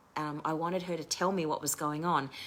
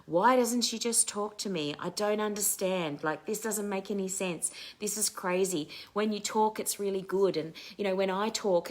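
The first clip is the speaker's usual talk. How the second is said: frustrated venting; 3 semitones higher than usual. Retold or imitated. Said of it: "I started tapping and saying".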